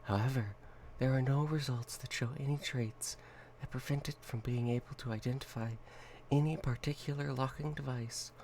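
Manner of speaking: formal report read; document reading. Acted. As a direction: read it like a file. Reads SCP document.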